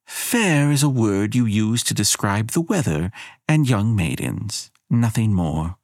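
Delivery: lightly voiced haughty goddess; cool goddess. Elena lectures Abigail on fairness, lightly voiced haughty goddess. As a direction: dismiss her coolly.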